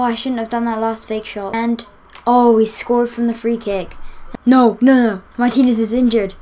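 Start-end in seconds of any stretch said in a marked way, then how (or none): 4.5-5.2 dismayed. Real, not acted. Star player gets injured.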